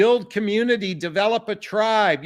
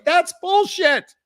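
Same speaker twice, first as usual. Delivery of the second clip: high, louder, slow dismissal; emphatic dismissal; 9 semitones higher, 4 dB louder, slower than usual. Real, not acted. Coach answering a viewer's objection, emphatic slow dismissal. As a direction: scoff it off, slowly and hard.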